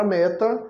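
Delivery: "meta" with the weight on "me"; "meta" stressed as ME-ta; stress on first syllable. Shown as a demonstration. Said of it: "a sílaba mais forte é a primeira sílaba".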